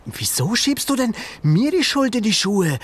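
put-on indignant boy's protest; mild indignant boy voice; called out. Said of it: "rief Ben".

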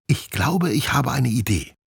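light up with the idea; brightening glider squirrel. Acted. Steffi brightens with an escape idea. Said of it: "Steffis Gesicht hellt sich auf".

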